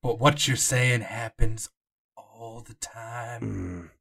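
hint at secrets you cannot tell; old docent, secretive. Acted. GM voicing Jonah.

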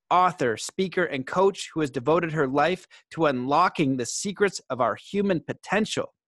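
measured announcer read with punched key words; podcast intro read. Acted. Host formally introducing today's guest to listeners, podcast intro read. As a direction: read out a guest bio, phrase by phrase.

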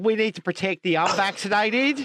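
mock New Zealand accent; Jacinda. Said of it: "if I'm allowed to do Jacinda".

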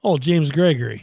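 lightly drawled Southern comedian; James Gregory. Pretend. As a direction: put on a country comic's voice. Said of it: "you sound exactly like James Gregory".

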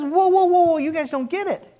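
high whoa whoa, a mild stop-right-there; lightly voiced Jesus halting the disciples; Jesus stopping them. Preacher voicing Jesus lightly, stopping the disciples. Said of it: "He says".

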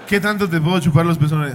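put-on town drunk. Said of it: "imitando a un borracho acosador e imprudente".

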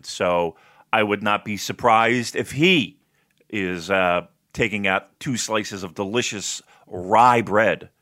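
slow, savoring food description; drawn-out, deliberate descriptive voice; describing voice. Real, not acted. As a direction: describe it slowly, lingering on each morsel. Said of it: "My describing voice".

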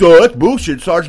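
a loud, dismissive soldier's retort; mock griping private; scoffing soldier. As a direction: brush off the sergeant loudly, scoffing. Soldiers objecting to the sergeant.

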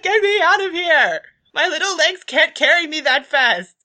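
high, loud little-creature squeal; squeaky, pleading alarm; panicked hamster. Acted. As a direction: beg frantically in a tiny animal voice. GM voices panicking hamster character.

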